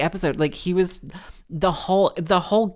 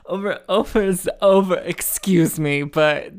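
laughing disbelief; 2 semitones higher, 3 dB louder than usual. Real, not acted.

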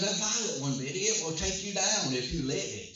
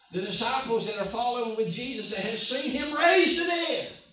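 raised pitch, piling up example after example; incredulous preaching; 5 semitones higher than usual. Real, not acted. Preacher marvels that the disciples forgot the miracles, incredulous. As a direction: preach it high, in rising disbelief. Exclaims at the disciples' lack of faith.

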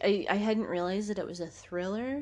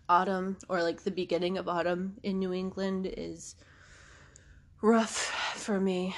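congested. Real, not acted. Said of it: "I'm, like, congested".

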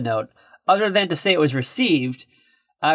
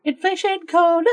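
announcer voice; 13 semitones higher than usual. Pretend. Announcing segment title.

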